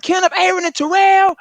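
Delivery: high, loud calling of the names; mom's full-name summons; mama calling full names. Retold or imitated. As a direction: call out each name like a furious mom. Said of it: "when she do the names".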